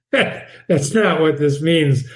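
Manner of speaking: slow with a laugh; amused slow repeat. Shown as a demonstration. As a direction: laugh then say "not" slowly.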